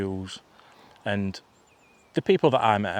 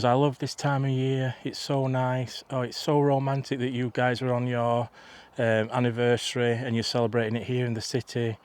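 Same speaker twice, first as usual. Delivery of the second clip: lightly imitated actress making friendly small talk; a hint of a badly faked celebrity accent; half-hearted go at a film star's voice; Renée Zellweger; 2 semitones higher than usual. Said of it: "Again, I can't do her accent".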